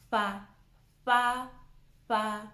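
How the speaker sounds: "pa" begun with a very soft puffed f-like consonant; soft FH sound. Shown as a demonstration. Teacher demonstrating FH to non-Venda speakers, soft consonant. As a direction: isolate "pa" with pauses, soft Venda FH. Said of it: "a very soft sound".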